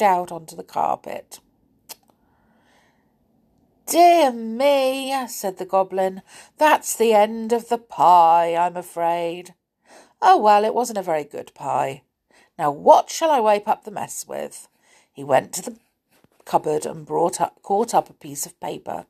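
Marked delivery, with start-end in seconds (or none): 3.9-5.1 dismayed goblin. Acted. Goblin drops the pie. 6.6-14.7 a hint of a fussy goblin, puzzled. Goblin after pie falls.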